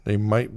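"might" given deliberate emphasis; stress on might. Real, not acted. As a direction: lean on the word "might" as a caveat. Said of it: "emphasize the word might".

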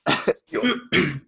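spluttering cough after water. Real, not acted. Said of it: "Dan is choking on his water".

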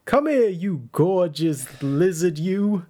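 slow, drawn-out mock flattery; sarcastic cooing at a beast. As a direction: lay on the sarcastic sweet talk. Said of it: "And I'm being sarcastic".

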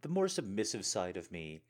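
hoarse, scratchy throat; frog in throat. Real, not acted. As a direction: speak through a frog in the throat. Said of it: "the little froggy frog in my throat".

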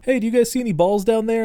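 high-pitched, lightly projected call; mock yell down. The speaker yells down from the roof about lost balls, mock yell. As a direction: imitate calling down, pitched well up. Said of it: "He yells down".

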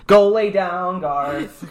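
loud, high command to the dog; calling out sharply. Real, not acted. Scolding the pet off mic.

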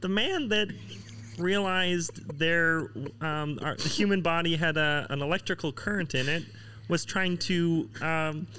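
lightly voiced cartoon frog; halting puppet-frog impression, slightly hammed up; Kermit the Frog. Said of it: "he can do the best Kermit".

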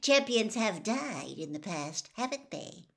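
breezy about death, all business; brisk. Acted. Reporter briskly reminds Harry champions have died. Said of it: "said Rita Skeeter briskly".

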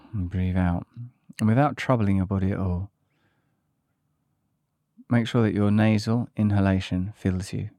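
calm breathing guidance, long pauses between phrases; guided meditation. Acted. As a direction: lead them unhurriedly through each breath.

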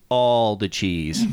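low, slow announcer read; dramatic caption voice. Pretend. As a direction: intone it like a grand slogan. Reading a mock caption aloud.

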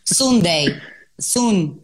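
Sunday and sun imitated with an "oo" vowel; Irish pronunciation. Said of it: "ellos pronuncian la U". (Sunday y sun dichos con U, a la irlandesa)

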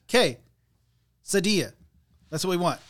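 high, loud, broken into syllables; mock emphatic correction. Friend retelling the Taco Bell order, loud insistence. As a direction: hammer out K, then Sadilla, mock insistent.

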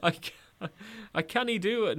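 put-on high, loud Geordie accent drifting Scottish; Geordie accent slipping Scottish. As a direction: Geordie attempt sliding into Scottish. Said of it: "No, it's going Scottish now".

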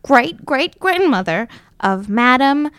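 grand, swooping Dondalorian belle voice; Dondalorian accent. Acted. Disguised belle invents a history for the knife, Dondalorian accent. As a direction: spin the tale in an affected Dondalorian accent. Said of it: "I affect my best Dondalorian accent".

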